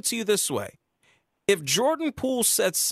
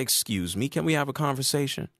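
mock polite request; 5 semitones lower than usual. Host sarcastically voicing a polite Draymond to caller. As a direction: ask it with fake sweetness. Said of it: "He didn't say".

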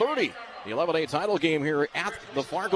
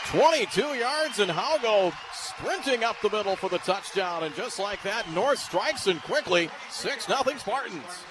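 touchdown call; 6 semitones higher than usual. Real, not acted. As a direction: yell the touchdown home, then hold it high. Touchdown run called live.

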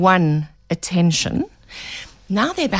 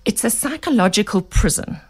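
hoarse voice. Real, not acted. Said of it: "excuse my voice, I've got such a frog in my throat".

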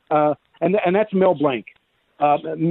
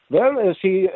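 lightly put-on German accent, pitched up; 4 semitones higher than usual. Shown as a demonstration. Voice actor trying a voice for an octopus, in a German accent. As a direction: try out a German professor's accent. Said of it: "you know, Sigmund Freud?".

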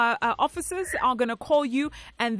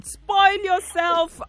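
gleeful encouragement; 4 semitones higher, 3 dB louder, much slower than usual. Real, not acted. Host cheering winner's birthday plan.

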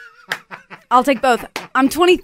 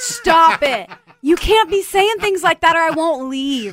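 higher voice through laughter; laughing protest; 4 semitones higher, slower than usual. Real, not acted. Guest given an honorary Australian pass, laughing protest. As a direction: playfully protest while laughing.

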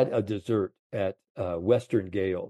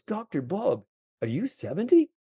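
much higher, amazed Scottish caddy; 10 semitones higher than usual. Retold or imitated. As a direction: squeak it out like the stunned caddy. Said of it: "the way he said it".

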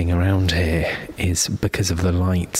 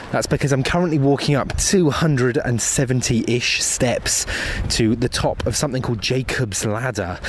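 out of breath; 3 semitones higher than usual. Real, not acted. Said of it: "if I sound slightly out of breath".

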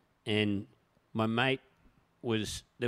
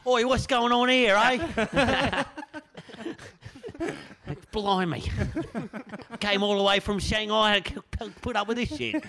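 higher, louder, hammed-up bloke telling off the lads; hammed-up angry shop owner, much higher and louder; mock furious shopkeeper; 10 semitones higher, 4 dB louder than usual. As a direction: bellow at the drunk lads like an outraged shop owner. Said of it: "Come on, Capo".

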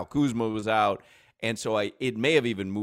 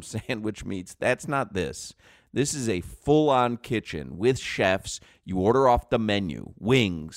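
upbeat radio ad read. Acted. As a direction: sell it like a live radio spot. Live ad read.

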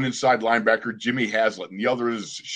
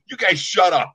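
higher, louder mock yell; mock yell back; 7 semitones higher, 4 dB louder than usual. Freddie yelling at his teammates in the huddle, mock anger. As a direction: snap back at the teasing teammates. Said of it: "And Freddie's yelling".

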